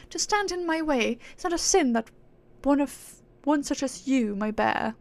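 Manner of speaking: haughty aristocratic British; scornful, high-and-mighty British accent. Acted. Proud being scorning mortals for chasing reward, haughty British accent. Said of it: "she's acting all high and mighty".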